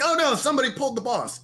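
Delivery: high, fast mock panic; panicked teammates, high and fast. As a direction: imitate the raid freaking out. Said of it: "everybody like".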